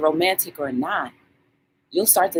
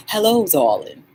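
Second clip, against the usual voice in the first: a second take of her greeting; mild friend impression; imitating Catherine. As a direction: repeat it like she says it. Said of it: "That's how she sounds".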